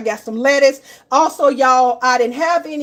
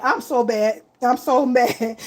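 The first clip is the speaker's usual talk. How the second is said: amused self-reproach; 2 semitones lower, slower than usual. Real, not acted. Streamer apologizing to viewers for muting, chuckling at herself. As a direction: laugh breaking into the words. Laughing at her own mistake.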